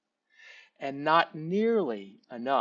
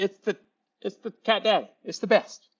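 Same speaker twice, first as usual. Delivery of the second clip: higher-pitched imitation of a gushing salesman; excited sales pitch; 6 semitones higher than usual. New salesman insists on his cooler to a doubtful customer, mock excited. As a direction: hype it up, stumbling over the superlatives. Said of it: "he is so excited".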